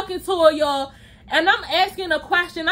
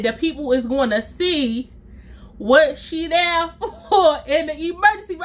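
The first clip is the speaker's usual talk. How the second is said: friend's voice. Retold or imitated. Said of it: "tired of talking in that voice".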